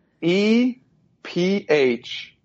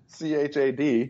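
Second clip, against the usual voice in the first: spelling it out. Shown as a demonstration.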